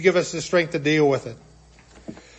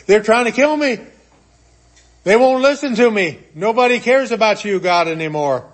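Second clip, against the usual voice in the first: despairing Elijah; 3 semitones higher than usual. Acted. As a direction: whine it out like a beaten prophet. Elijah's despairing complaint to God.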